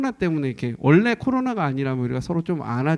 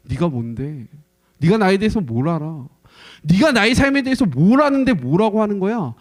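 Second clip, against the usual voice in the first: defensive retort; 2 semitones higher, 4 dB louder than usual. Retold or imitated. Offended person snapping back.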